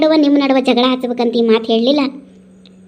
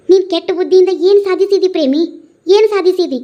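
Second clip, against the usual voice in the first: higher, sharp rebuke; reproachful scolding; 7 semitones higher than usual. Acted. Friend scolding Premi for her wicked ways, reproachful and high. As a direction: demand an answer, scolding hard.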